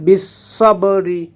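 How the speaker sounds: "বিসসবরি" with bis held into the sad; joined letters. Shown as a demonstration. Teacher showing how ba catches sad, doubled s in "বিসসবরি". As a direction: lean from bi onto a doubled s in "বিসসবরি". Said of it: "এই বাটা সদকে ধরবে".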